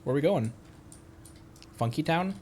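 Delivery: ordinary talk, nothing marked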